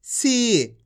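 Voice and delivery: सी with a long, drawn-out ee. Shown as a demonstration. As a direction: stretch the vowel of सी for learners. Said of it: "खींच के पढ़ा जाता है".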